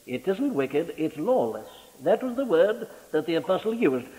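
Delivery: usual speaking voice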